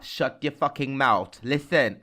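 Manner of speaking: loud, indignant comeback in jest; mock outrage. Co-host teased about dressing as an old lady, mock outrage. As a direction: snap back in mock fury. Mock quarrel after teasing insult.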